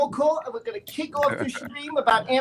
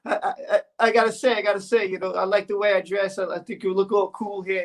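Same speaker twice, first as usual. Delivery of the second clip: slightly lowered voice as Gary; Gary impression; 3 semitones lower than usual. Singer admires the host's look, light Gary impression. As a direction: play the admiring sidekick in a lightly put-on voice. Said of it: "You pretending to be me".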